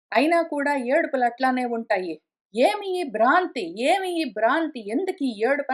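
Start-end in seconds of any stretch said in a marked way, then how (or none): 2.5-5.7 challenging question. Acted. Guru questions the disciple's delusion, mildly challenging. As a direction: challenge the listener, lifting the opening word. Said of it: "అని అడుగుతాను".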